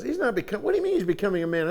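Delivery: incredulous wife. Retold or imitated. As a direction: fire the question back at him, disbelieving. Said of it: "she says (line 7)".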